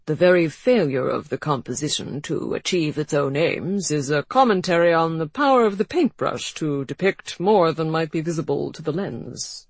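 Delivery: faint lisp, mock-solemn art critic; pompous expert with lisp. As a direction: lecture it like a lisping expert. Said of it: "adding a faint lisp for good measure".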